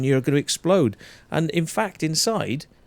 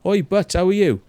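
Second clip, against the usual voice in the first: put-on louder, higher Welsh mate's greeting in a Welsh accent; Welsh banter; 8 semitones higher, 5 dB louder than usual. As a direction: hail a friend across the pub, Welsh accent. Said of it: "you sound like this when you come from Wales".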